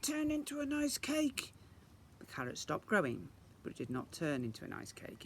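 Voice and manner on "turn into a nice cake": thought. Acted. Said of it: "I thought".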